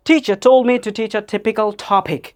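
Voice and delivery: slow model reading with aspirated t in 'teach' and 'topic'; tongue-twister demo. Shown as a demonstration. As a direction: slowly puff each t in 'Teacher told'. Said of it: "try this tongue twister". ('typical topic'-এর ঠ ধীরে স্পষ্ট উচ্চারণ)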